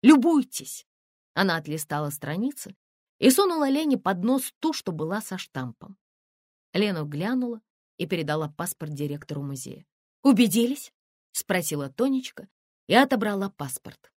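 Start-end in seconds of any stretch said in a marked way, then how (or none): 0.0-0.9 high, loud, slow defiant cry; defiant shout. Acted. Тонечка shoves her passport at them, shouting defiantly. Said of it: "Тонечка выхватила из сумки паспорт". 10.2-10.9 loud, high taunting question; challenging. Acted. Тонечка taunts them after showing the stamp.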